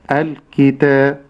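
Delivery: الكتاب drawn out slowly, each letter clear; slow recitation. Shown as a demonstration. Sheikh models الكتاب for students, slow and careful. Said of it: "تصبح الكتاب".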